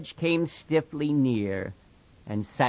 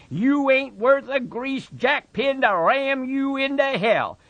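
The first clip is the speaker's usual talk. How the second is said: higher, louder mocking voice; taunting rabbit; 12 semitones higher, 5 dB louder than usual. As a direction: rub his nose in it.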